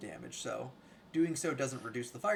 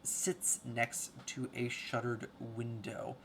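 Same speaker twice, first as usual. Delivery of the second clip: scene-setting narration; 5 dB louder, slower than usual. Acted. Game master describing the ruined library, scene-setting narration. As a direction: read out the grim room to the table.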